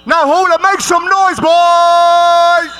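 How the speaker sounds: shouting to the crowd; calling out. Real, not acted. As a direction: call the crowd to cheer. MC calls crowd to cheer.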